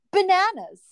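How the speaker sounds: high, slow robotic announcer voice, the second word dragged out; self-checkout machine voice. Retold or imitated. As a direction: imitate the store scanner calling out the price. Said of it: "I've heard it say".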